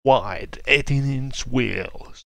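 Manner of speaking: slow, dramatic trailer announcer; movie trailer voice. Retold or imitated. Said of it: "Like a tra-, trailer voice".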